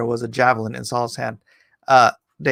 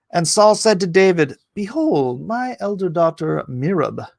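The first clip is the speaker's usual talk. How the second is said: raised, declaimed Bible verse; stately King James delivery; scripture reading; 5 semitones higher than usual. A narrator's reading. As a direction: proclaim it like an old scripture reading. Reads scripture aloud.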